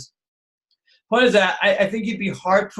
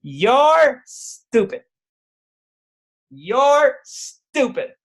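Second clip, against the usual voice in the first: put-on child's taunt; 7 semitones higher, 4 dB louder, much slower than usual. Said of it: "he says to you".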